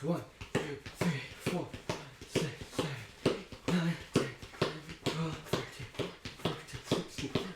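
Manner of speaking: panting through the count; breathless, gasping counting; out of breath. Real, not acted. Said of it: "quite out of breath actually".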